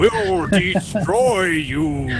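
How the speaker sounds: slow Darth Vader voice through a fan. Acted. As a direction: menace it slowly like Vader. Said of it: "I am Darth Vader".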